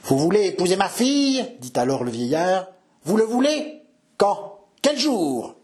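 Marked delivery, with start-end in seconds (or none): 0.0-1.5 high, strained-sounding question; old father demanding confirmation; astonished old man. Acted. Dying father questioning the suitor, astonished old man's voice. 3.0-5.6 high, insistent questions; urgent old man. Acted. Dying father pressing the suitor for a date, urgent old man's voice.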